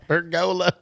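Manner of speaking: "pergola" mocked high as per-GO-la; teasing mispronunciation. Echoing a friend to tease, "pergola" as per-GO-la. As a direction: sing out the long GO in "pergola". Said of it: "making fun of the way I talk".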